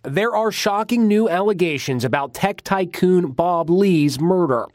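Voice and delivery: punchy tabloid news read; tabloid tv host. Acted. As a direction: sell the scandal like a tabloid host. Tabloid crime report read.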